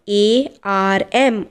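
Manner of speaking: each letter said slowly and apart; slow spelling out. Shown as a demonstration. Teacher spelling a word for students, slow and spaced. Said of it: "teacher spells word letter by letter".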